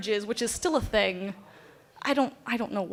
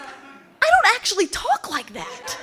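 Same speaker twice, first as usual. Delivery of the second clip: high, slow, laughing protest; giggling denial of the accent; 9 semitones higher, slower than usual. Retold or imitated. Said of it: "I was like".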